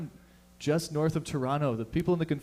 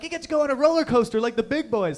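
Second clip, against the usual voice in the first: mock grown-up voice; 8 semitones higher, 6 dB louder than usual. Mocking adults talking to a kid.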